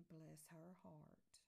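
soft, drawn-out pitying blessing; sympathetic. Acted. Friend closing gossip about Mary, softly sympathetic. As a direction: say it slowly and softly, as if pitying her.

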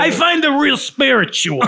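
high, loud mock-earnest voice; put-on spiritual fan. Joking about people who find Star Wars spiritual, high put-on voice. Acted quote in joke about fans.

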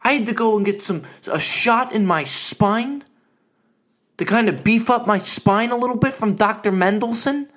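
a hint of a whiny father; dad complaining. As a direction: retell the spine shot like a grumbling dad. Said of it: "he goes".

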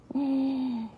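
drawn-out high gasp. Acted. Reader reacting to rumors of lice, gasping. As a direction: gasp softly at a high pitch. Reader gasps during story.

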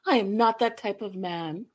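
breathy mock whisper of a man; whispered impression of the boyfriend; whispered quote. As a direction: hush it like a smug suitor. Mock whisper of Usman's line.

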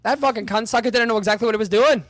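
loud, high put-on rough British accent. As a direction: play a rowdy British bloke. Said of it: "Not bad".

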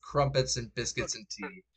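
lightly put-on British accent; badly faked British, said in jest; mock British accent. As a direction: do a half-hearted British impression. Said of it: "That's how you're talking now".

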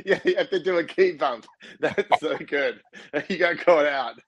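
laughing. Real, not acted. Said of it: "laughing at the story".

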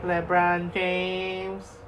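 extremely slow drawn-out name; LeBron James Vine. Retold or imitated. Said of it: "that stupid ass fucking Vine".

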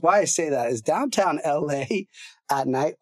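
talking while choking a little; choking on a swallow mid-sentence. Real, not acted. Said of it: "Hold on, I'm choking here".

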